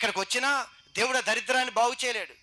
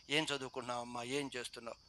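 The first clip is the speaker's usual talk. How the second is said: softer, lower, kindly asking after someone; tender demo of a friendly hello; loving greeting; 7 semitones lower, 9 dB quieter than usual. Shown as a demonstration. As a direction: greet them gently, like you care. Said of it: "అందరిని మీరు పలకరించండి ప్రేమగా".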